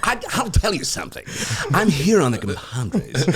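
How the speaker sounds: rich, gravelly actor impression; Ian McShane. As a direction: put on a badly imitated gravelly voice. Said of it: "He's got this voice".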